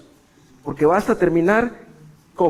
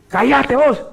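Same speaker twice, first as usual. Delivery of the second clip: shouted hush; 10 semitones higher, 6 dB louder, slower than usual. Retold or imitated. Imagined crowd silencing Bartimeo.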